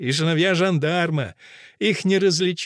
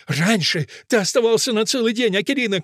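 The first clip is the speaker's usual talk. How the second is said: reproachful raised voice, pitched up; Fusia; 6 semitones higher than usual. A narrator's reading. Fusia reproaches Akelina for short visits, crying out. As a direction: complain in a high cry. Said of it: "кричит Фуся".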